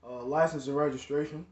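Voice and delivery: lightly imitated officer; casual cop request; first take of cop voice. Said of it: "That, that's really how he sound".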